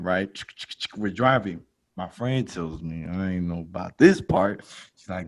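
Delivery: normal talking voice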